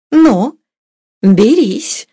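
high, loud, cheerful challenge; merry. A narrator's reading. Mistress, cheered up, lets Sergei lift her, merrily. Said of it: "развеселившись".

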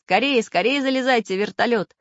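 high, loud urgent orders; commanding. A narrator's reading. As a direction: hurry them aboard like a leader. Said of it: "командовал Самоделкин".

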